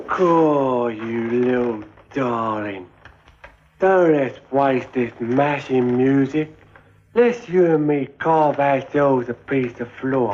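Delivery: slow, careful copy of the smooth line; clumsy copied chat-up. Retold or imitated. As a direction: rehearse the charmer's line haltingly. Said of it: "Yeah, I like that".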